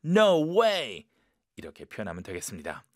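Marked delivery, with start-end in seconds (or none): 0.0-1.1 high, loud shocked no way; strong shock. Shown as a demonstration. Teacher demonstrating a shocked no way. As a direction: hit it hard, stunned. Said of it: "좀 강하게 쇼킹한 느낌".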